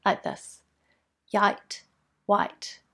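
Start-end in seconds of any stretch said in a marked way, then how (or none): 1.3-1.8 "Yite" with a y sound replacing the L; y in place of L. Shown as a demonstration. Speech teacher showing parents a child's error, y for L in "Yite". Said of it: "a y or w sound instead". 2.3-2.8 "white" with a w sound replacing the L; w in place of L. Shown as a demonstration. Speech teacher showing parents a child's error, w for L in "white". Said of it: "a y or w sound instead".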